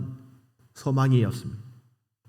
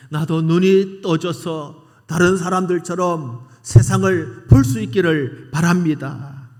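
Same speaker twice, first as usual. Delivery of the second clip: earnest plea; 4 semitones higher, 5 dB louder, slower than usual. Retold or imitated. Blind man's earnest plea.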